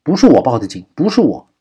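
loud, high cry of denial. A narrator's reading. Victim pleading innocence to the kidnapper on the phone, crying out. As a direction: shout in desperate protest. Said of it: "王若思叫道".

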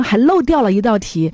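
高声惊喜地夸孩子, 音调明显上扬; 夸张地惊叹九十四分; 惊喜夸奖. Shown as a demonstration. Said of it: "我们现在就给妈妈做一个示范". (给妈妈示范如何夸奖孩子, 高声惊喜)

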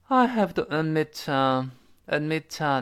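"admit, uh" joined as "admi-tuh"; linked hesitation. Shown as a demonstration. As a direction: slide the t of "admit" into a drawn-out "uh". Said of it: "您听到是这么一个声音".

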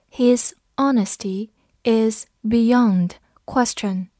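slow, whispered, word by word; slow reading. Shown as a demonstration. Teacher reading the sentence slowly for students. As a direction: read it slowly for learners. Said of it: "我们慢读一遍".

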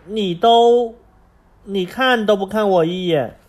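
loud, upset complaint; angry child. Acted. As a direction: shout it out in protest. Angry child knocks phone away.

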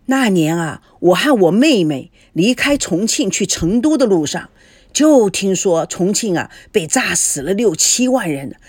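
lightly voiced emphatic storyteller; old Jin reminiscing. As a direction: recount wartime hardship over a drink. Lao Jin reminisces over liquor.

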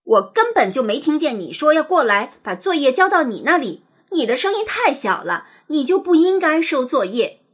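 put-on loud, heated child's yell; roaring at her. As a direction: shout her down. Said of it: "冲着林月楚大吼". (大声吼叫)

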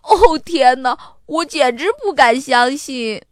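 put-on high, loud jubilant boy; happy shouting. A narrator's reading. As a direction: cheer like a kid who has won big. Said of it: "亚瑟开心地喊着".

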